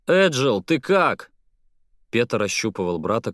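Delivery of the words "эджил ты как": raised, worried call to a brother. Acted. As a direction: call out high and anxious. Brother checks on scared brother.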